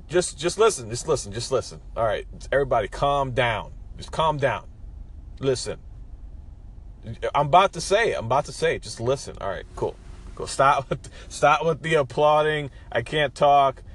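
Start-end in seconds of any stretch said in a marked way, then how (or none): 0.1-9.4 playfully hushing an eager audience, higher at first; mock crowd-calming. Host teasing fans before his big idea, mock crowd-calming. Pretends to hush an excited crowd. 10.5-13.8 playfully protesting over imagined applause, pitched up; mock protest. Host to an imaginary applauding crowd, mock protest.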